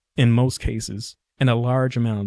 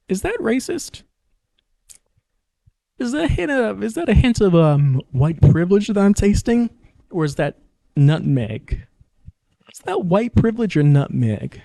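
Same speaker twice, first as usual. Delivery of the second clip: much higher, fussy questioning voice; mock suspicious taster; 9 semitones higher, 3 dB louder than usual. Podcaster voicing someone fretting over a cake's taste, high and fussy. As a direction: squeak out each worried question about the flavour. Imagined person tasting suspicious cake.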